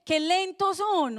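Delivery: slow, mild scolding of "Qué lentos son"; mock scolding Jesus. Jesus chiding slow disciples, slow mild rebuke. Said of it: "otra versión dice".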